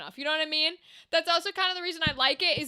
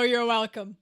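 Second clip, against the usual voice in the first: laughing; 4 semitones lower than usual. Real, not acted. Laughing after lady voice.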